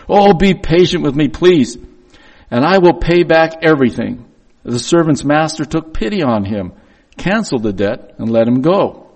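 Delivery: steady reading of the passage to the congregation; scripture reading. Acted. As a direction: read it out like a pastor in the pulpit. Reads Matthew passage aloud.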